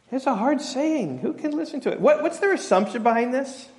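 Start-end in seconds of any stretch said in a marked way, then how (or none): 0.1-2.0 mock whine. Disciples complaining to Jesus, high whiny take. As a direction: whine it like fussy followers. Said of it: "And they're saying".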